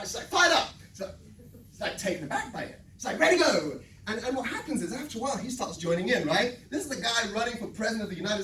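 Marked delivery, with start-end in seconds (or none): 0.3-0.7 high, loud mock American shout; American church lady. Old lady greeting the candidate, shouted in American accent. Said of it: "like, in her American accent". 3.2-3.8 high, loud mock American shout; American church lady. Old lady greeting the candidate, shouted in American accent. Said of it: "like, in her American accent".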